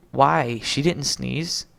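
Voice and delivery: loud, slow, baffled outburst; a booming, dragged-out "Why?"; loud confusion. Acted. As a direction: shout it out, puzzled. Prisoner confused by the blessing.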